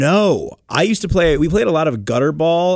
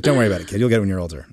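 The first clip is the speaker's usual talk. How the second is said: put-on smug older brother; 7 semitones lower, much faster than usual. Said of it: "I was like".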